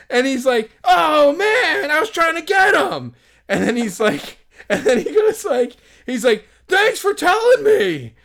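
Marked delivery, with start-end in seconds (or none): 0.8-3.1 much higher, loud, crying complaint; whiny lament. Retold or imitated. Fan lamenting to the group he missed him, crying whine. 6.7-8.1 much higher, slow, loud and put-upon; sarcastic thanks. Retold or imitated. Fan sarcastically thanking the group, slow sour thanks.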